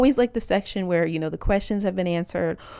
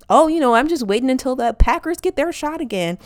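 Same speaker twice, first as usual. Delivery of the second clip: louder, slightly raised chit-chat voice; chummy small talk; 3 semitones higher, 5 dB louder than usual. Retold or imitated. Wisconsinite faking interest in the Packers, chummy. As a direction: put on polite sports-fan small talk. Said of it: "I can just always default to".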